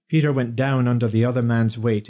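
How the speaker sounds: ordinary delivery, nothing marked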